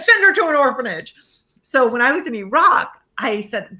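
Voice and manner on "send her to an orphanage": retold father's order. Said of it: "And then he said".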